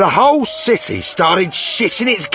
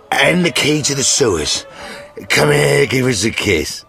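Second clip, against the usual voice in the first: put-on drunkenly sentimental. Drunk sergeant giving witcher his journal, drunkenly sentimental. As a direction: gush tipsily at a beloved mate.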